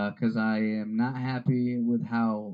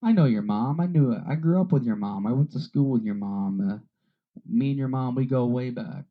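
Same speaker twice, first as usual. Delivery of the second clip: excited townsperson; 4 semitones higher, 4 dB louder than usual. Retold or imitated. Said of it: "without someone being like".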